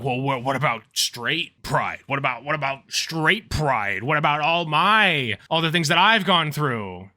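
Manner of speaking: mock a whining straight guy; whiny weirdo. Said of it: "be a weirdo being like".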